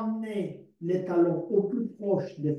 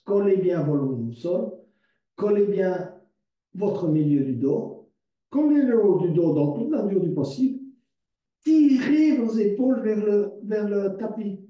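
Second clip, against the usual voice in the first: louder and higher, driving each instruction; building coaching push; 3 semitones higher, 5 dB louder than usual. Shown as a demonstration. Yoga teacher pushing her class to flatten their backs, louder urging cues. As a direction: press them harder into the floor with your voice. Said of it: "coach pushes the stretch".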